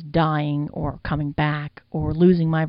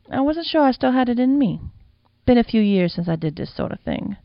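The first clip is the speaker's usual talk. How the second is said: put-on higher, louder, proud older madam; 7 semitones higher, 4 dB louder than usual. The madam boasting to the young man, higher proud voice. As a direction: brag a little, an old pro surprised at herself.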